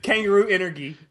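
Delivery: playful echo, "energy" ending in GHEE; mimicked anime pronunciation. Riffing on wallabies on treadmills, mock-anime hard-G "energy". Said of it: "did they actually pronounce it".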